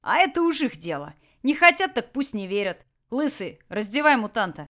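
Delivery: lazy threatening boss voice; gruff bandit boss. Acted. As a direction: bandit leader menacing his prisoners. Tolyan gives orders.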